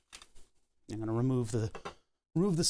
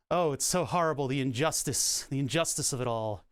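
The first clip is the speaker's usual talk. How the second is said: mock drama. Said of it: "She's guilt tripping me right now".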